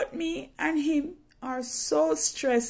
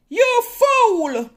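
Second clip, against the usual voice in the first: much higher and louder, scolding yell; cursing; 12 semitones higher, 11 dB louder, much slower than usual. Retold or imitated. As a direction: point and curse in her face. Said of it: "She cursed me".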